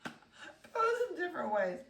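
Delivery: high, laughing chatter; cracking up mid-sentence. Real, not acted. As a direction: talk on through real giggles. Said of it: "I can't believe I'm laughing".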